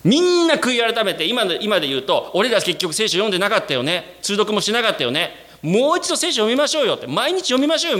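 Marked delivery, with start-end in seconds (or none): 2.3-8.0 rising, lightly acted urging; eager church member. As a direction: cheer everyone on to read daily. Church member urging Bible reading.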